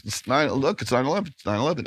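fast, eager repeated pointing out; excited kid pointing. Retold or imitated. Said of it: "He would just always".

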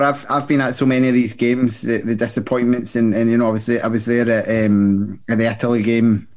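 slightly slurred, tipsy speech. Real, not acted. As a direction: talk like you've had a few drinks. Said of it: "Sorry, I'm sounding like a, a drunk 'cause I am".

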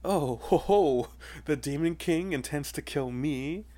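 mocking villain chuckle; teasing. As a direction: taunt him with a smug laugh. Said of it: "the monster is teasing him".

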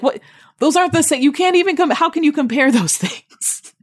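very high, squeaky what; shocked she'd compare those; retold disbelief. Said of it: "I was just like".

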